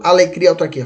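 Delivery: quick, joined-up "alegria, autarquia"; brisk demo of the mnemonic; said fast. Shown as a demonstration. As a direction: rattle off ALEGRIA AUTARQUIA as one phrase. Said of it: "Fala rápido".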